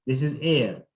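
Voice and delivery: "air" with an open "eh" vowel; correct air. Shown as a demonstration. Teacher repeating the right word to the student. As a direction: model "air" with the mouth open. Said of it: "Ear is this".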